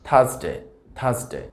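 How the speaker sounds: থার্সডে as "thas-de", short ending; common mispronunciation. Shown as a demonstration. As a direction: say থার্সডে with an unglided final e. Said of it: "আমরা যেভাবে উচ্চারণ করে থাকি".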